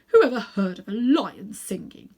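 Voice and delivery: a tense, doubting whisper; whispered thought. A narrator's reading. Uncle Andrew whispers, trying to dismiss the lion's song. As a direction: whisper it to calm your own nerves. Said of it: "he thought".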